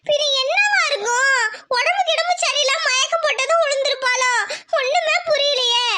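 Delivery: anxious wailing. Acted. Mother fretting to husband about their daughter, anxious wailing. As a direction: wail with mounting worry.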